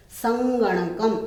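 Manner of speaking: संगणकम said slowly, syllable by syllable, sam-ga-na-kam; slow teacher's demo of संगणकम; careful pronunciation. Shown as a demonstration. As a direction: spell out संगणकम slowly for the class. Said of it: "इसका उच्चारण विशेष रूप से".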